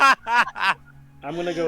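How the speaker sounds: slow character voice. Acted. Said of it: "That's so in character".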